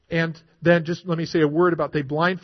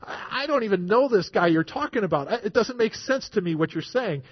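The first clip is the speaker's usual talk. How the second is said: mildly raised, insistent denial; emphatic denial; 3 semitones higher than usual. Retold or imitated. Preacher acting Peter disowning Jesus, emphatic denial. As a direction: protest that you know nothing about it. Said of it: "Peter's emphatic denials".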